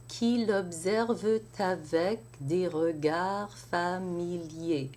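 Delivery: l'observe avec with the T linked into avec; liaison. Shown as a demonstration. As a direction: carry the T into avec. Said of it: "makes a liaison".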